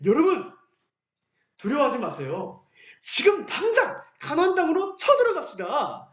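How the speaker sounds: bold, rousing call to attack; rallying call. Acted. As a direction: pump the crowd up, cheerfully confident. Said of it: "여호수아와 갈렙은 이렇게 말했어요".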